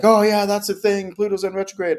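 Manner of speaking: put-on voice of someone passing on rumours; mock credulous believer. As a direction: parrot it in a high, mocking voice. Mimics people repeating made-up claim.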